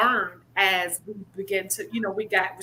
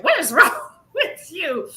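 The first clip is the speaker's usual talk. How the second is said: higher laughing scold; laughing mock scold; 7 semitones higher, 5 dB louder than usual. The speaker scolding her husband, laughing. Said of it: "LeVay just said".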